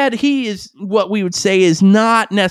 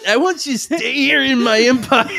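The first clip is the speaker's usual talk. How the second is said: imitating Chad; 6 semitones higher than usual. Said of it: "when he said".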